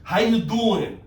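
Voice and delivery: silly Jersey greeting, played up; big playful Jersey accent. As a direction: say it like a joking Jersey local. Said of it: "I'm from Jersey".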